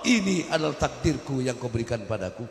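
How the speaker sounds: pleading prayer pitched high; a believer's high imploring prayer; heartfelt prayer. Acted. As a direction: cry out to God, high and earnest. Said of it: "Tapi katakan".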